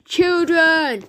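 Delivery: high loud cry; scream. Acted. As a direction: yell in horror. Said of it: "screamed Edmund".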